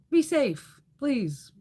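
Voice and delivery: a loud, lifted be safe to the ladies; bright call-out. Real, not acted. Signing off to viewers, be safe called out high and loud.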